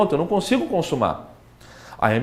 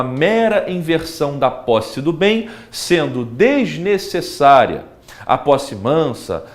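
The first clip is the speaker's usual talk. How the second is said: slow formal dictation; slower than usual. Shown as a demonstration. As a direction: read out slowly like a legal brief. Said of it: "Então, você vai falar que".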